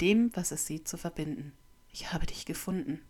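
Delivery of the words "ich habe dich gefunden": leise, ungläubig geflüstert; erstaunt. Acted. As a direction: staunend hauchen. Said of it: "stellt er erstaunt fest". (erstauntes Flüstern)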